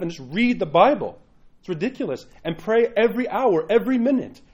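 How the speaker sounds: direct priest. Retold or imitated. Pastor retells the Russian priest scolding his flock, mildly stern. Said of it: "and he says".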